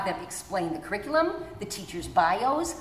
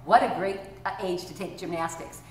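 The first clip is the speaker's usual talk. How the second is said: enthusiastic. Shown as a demonstration. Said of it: "you'd go".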